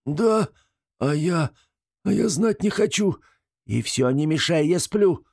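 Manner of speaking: high voice of a small sulky fellow; high, stubborn little grumble; huffy little creature. Acted. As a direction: squeak out refusal, turning away. Short Gremlun voiced high.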